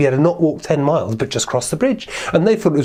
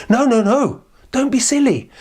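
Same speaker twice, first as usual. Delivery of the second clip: high, protesting little goat; little billy goat; 10 semitones higher than usual. Acted. Little goat talks troll out of eating him, high protest. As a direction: plead in a high small voice. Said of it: "little billy goat Gruff said".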